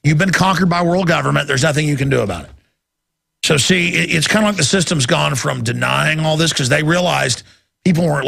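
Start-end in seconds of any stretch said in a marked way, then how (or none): 0.0-2.5 mocking announcer voice.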